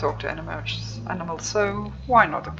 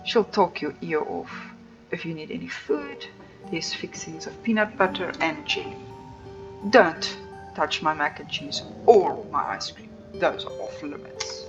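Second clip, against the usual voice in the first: aloof tour guide; 2 semitones lower than usual. Acted. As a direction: play the snooty estate owner. Streamer voices guide Tabitha.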